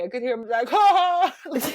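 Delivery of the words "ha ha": loud mocking ha ha; mock guy laughing. Imitating the teen who laughed at her, loud mocking laugh. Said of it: "laughing at me".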